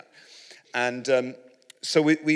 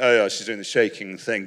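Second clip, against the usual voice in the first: blasé; 3 semitones lower, 6 dB louder than usual. Retold or imitated. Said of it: "I know some of you be like".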